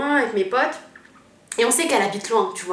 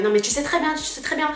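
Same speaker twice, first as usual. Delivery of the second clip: mock-heated, higher accusing repeat; getting heated; 6 semitones higher than usual. The cousin, imitated, flares up at the boyfriend, higher and accusing. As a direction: imitate the cousin flaring up, pitch climbing. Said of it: "Et elle commence à s'enflammer".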